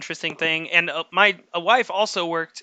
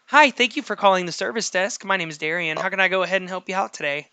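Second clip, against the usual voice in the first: customer service voice. Shown as a demonstration. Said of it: "When you do your customer service voice".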